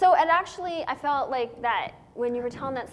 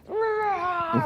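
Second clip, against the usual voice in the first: mock roar; 6 semitones higher, 3 dB louder than usual. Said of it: "I was like".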